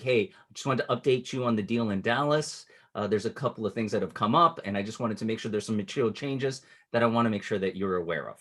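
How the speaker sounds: calm, paced delivery with pauses; slow it down and let it breathe. Shown as a demonstration. Coach demoing a calm investor update, unhurried. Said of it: "I might not say it that fast".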